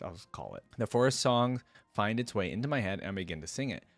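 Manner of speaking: measured first-person storytelling; story narration. A narrator's reading. Hero grumbling to himself about the steps, lightly acted narration. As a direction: read it as the hero's running thoughts.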